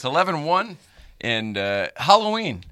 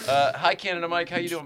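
ordinary talk, nothing marked

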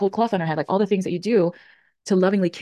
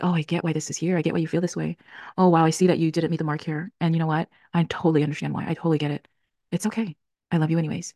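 loving self-talk. Shown as a demonstration. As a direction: speak to yourself with grace and patience. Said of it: "the voice of lovingly sitting with the pain".

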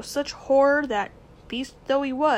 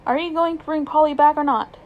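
higher and louder, insistent; demanding; 5 semitones higher, 8 dB louder than usual. Acted. Boy demanding his uncle bring Polly back, louder. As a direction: push for an answer now.

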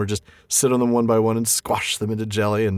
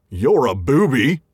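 slow troll insult on the edge of laughter; troll insult, close to giggling; 3 semitones higher, 4 dB louder, slower than usual. Acted. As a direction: try to say it straight but nearly crack up. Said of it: "I would say that with a straight face and not laugh, and I didn't".

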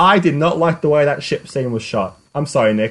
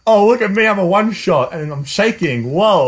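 mocking imitation; 4 semitones higher than usual. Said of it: "had no purpose instead of".

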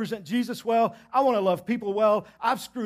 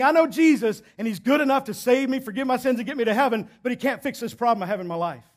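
mock believer's excuse; 3 semitones higher, 3 dB louder than usual. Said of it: "You're saying".

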